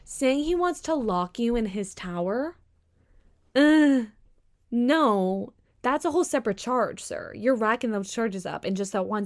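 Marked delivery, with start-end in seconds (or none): 3.5-5.5 flat refusal. Real, not acted. Loud refusal.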